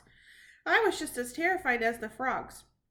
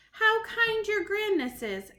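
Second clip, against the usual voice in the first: fawning witch voice; 9 semitones higher, 4 dB louder, slower than usual. Acted. Witches burbling.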